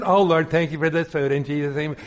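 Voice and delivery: rattled-off table prayer; imitating a perfunctory blessing; mock routine grace. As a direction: say grace by rote, unmoved. Acts out routine grace over food.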